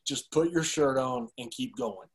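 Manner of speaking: understated imitation of an unimpressed cop; retold officer's order. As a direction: say it slowly and low, as a dismissal.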